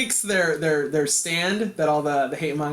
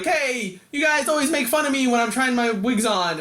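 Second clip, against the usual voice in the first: pitched-up sulky protest, joking; mock whining complaint; 5 semitones higher than usual. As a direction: complain in jest, higher voice. Retells Sue's squabble complaint.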